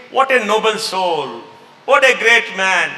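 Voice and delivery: slow, drawn-out imitation of praise; mock admiration. People praising the leader who takes blame, slow mock admiration. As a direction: stretch out each word like an admiring crowd. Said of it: "Then what do people say?".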